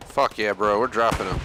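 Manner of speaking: loud hyped cheer. Real, not acted. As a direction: cheer the kills. Hyped after kills in game.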